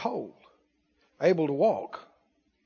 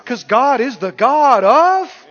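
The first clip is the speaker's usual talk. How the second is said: preaching climax; 9 semitones higher, 9 dB louder than usual. Acted. Preacher proclaiming God's nature, full force. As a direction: lift it to the rafters.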